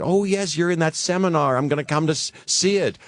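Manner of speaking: high, lilting Shirley MacLaine voice; meeting him on the street, a high bright Shirley MacLaine; Shirley MacLaine impression. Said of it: "My perfect Shirley MacLaine impression".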